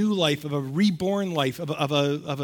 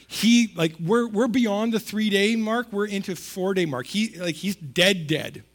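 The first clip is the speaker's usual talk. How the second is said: rising, louder, pressing the point; excited insistence; 4 semitones higher, 4 dB louder than usual. Real, not acted. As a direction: push hard that he's long dead. Excited insistence he's really dead.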